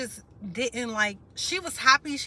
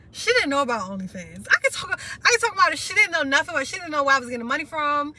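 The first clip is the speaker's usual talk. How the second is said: choked up; 4 semitones higher, 6 dB louder, faster than usual. Real, not acted. Crying over grandmother, OnlyFans secret.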